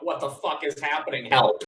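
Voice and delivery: panicked call, shouted on the last word; voix inconnue qui crie. Acted. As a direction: act out a stranger's cry for help, loudest at the end. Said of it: "unknown voice just start shouting".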